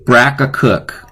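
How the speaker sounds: slow, careful brack a cook; testing a spoonerism aloud. Shown as a demonstration. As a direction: try the swap out slowly. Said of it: "I think what I'm gonna do".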